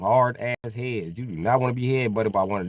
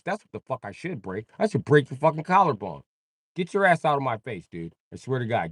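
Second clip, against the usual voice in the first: mock angry threat; 3 semitones higher than usual. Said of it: "He'd be like".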